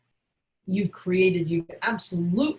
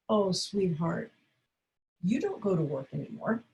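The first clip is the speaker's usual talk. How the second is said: kind, caring tone; loving and calm; 3 dB quieter than usual. Shown as a demonstration. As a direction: gently break it to him with care. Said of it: "lovingly, calmly, with wonderful, caring intention".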